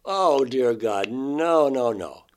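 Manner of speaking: mock distraught pleading, slow on dear God; reliving the panic, crying no; retold crying. Sobbing no at the women holding him. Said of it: "and I start crying".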